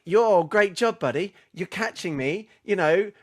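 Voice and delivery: a sugary pat on the head for a rival; patronizing praise. Retold or imitated. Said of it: "it's almost patronizing".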